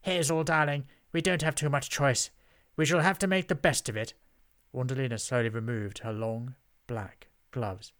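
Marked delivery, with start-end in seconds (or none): 0.0-4.1 high, loud lofty witch; haughty witch. A narrator's reading. Witch answers her sister about the inn, lofty resignation. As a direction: condescend with a grand "darling".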